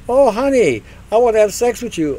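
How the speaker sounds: hammed-up sweet lover voice; mock lover. Mock millennial lover quote.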